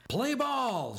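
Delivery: high, loud call to play; shouting. A narrator's reading. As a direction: belt it out like an umpire. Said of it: "shouted Coach Pop Fly".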